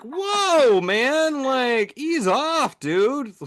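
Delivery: a ghost recoiling from rude guests; startled ghost. Pretend.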